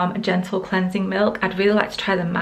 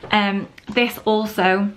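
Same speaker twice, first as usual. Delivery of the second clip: slightly winded, catching breath; 2 semitones higher than usual. Real, not acted. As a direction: talk while short of breath. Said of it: "I'm so out of breath".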